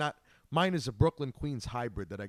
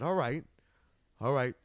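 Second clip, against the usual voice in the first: put-on thick Brooklyn accent. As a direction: drag it out in heavy Brooklyn accent. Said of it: "a really thick Brooklyn accent".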